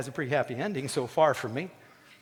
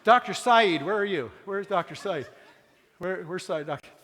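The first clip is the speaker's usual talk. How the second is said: calling out; 5 semitones higher, 4 dB louder than usual. Real, not acted. Calling out for Doctor Saeed.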